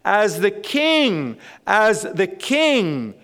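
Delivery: slow, weighty stress on "king", falling at the end; emphatic repetition. Real, not acted. Preacher tells congregation Jesus comes as the king, emphatic repetition. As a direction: draw out "as the king" and land hard on "king". Preacher drives home repeated phrase.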